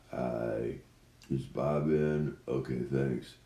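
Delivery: weak, feeble sick voice. Acted. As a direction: play it up like you're ill. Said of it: "I'm gonna do a demonstration".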